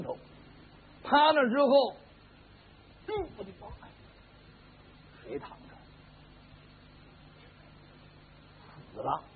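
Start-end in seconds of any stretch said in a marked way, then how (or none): 3.1-9.2 soft startled gasp sinking to a whisper; shocked, barely voiced discovery of a body; hushed fright in the dark; frightened hush. Finds a corpse in the dark.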